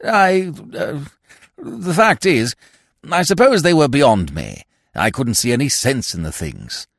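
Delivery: stammering peer backtracking in embarrassment; blurt, then stumble as his lordship; flustered lord. A narrator's reading. Lordship confesses awkwardly.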